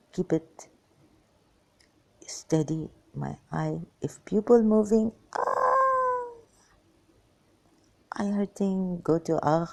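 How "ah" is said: pained cry. Real, not acted. Eye pain while moving pupil.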